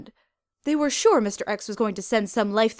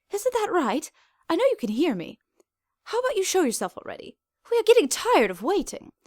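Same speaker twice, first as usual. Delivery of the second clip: yelled at the ceiling; 10 semitones higher than usual. A narrator's reading. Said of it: "the doctor yelled".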